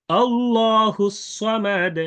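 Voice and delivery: slow, high chant ending "সামাদ" on a vowelless d; sakin stop recitation. Shown as a demonstration. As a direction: chant slowly, stopping "সামাদ" on a bouncing d. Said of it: "সাকিন করে". (সাকিন করে ধীর তিলাওয়াত, শেষে "সামাদ")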